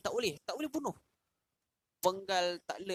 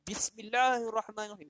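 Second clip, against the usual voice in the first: higher and louder, called out for the crowd; loud recitation; 4 semitones higher, 5 dB louder than usual. Retold or imitated. The king recites bismillah loudly as the youth asked. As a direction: proclaim it loudly to everyone. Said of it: "baca bismillah kuat-kuat".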